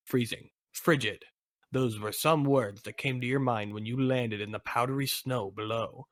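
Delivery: measured storyteller's read; story narration. Acted. Narrator reading the snowy opening to players, story narration. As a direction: narrate an adventure to the listener.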